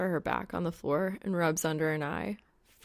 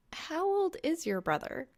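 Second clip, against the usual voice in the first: put-on lightly higher girl's voice; young woman voice; 11 semitones higher than usual. A narrator's reading. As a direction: voice her a bit higher and brighter. Reaper asks.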